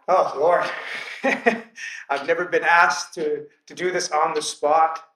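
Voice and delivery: a flustered laugh breaking into the prayer; laughing disbelief. Retold or imitated. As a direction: caught off guard and laughing at it. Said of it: "so I was like".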